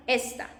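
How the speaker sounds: esta with the weight on "es"; stress on first syllable. Shown as a demonstration. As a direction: lean on the start of esta. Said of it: "means this one".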